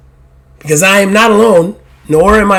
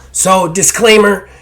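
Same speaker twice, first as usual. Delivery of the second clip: whispered aside; 3 semitones higher, slower than usual. Real, not acted.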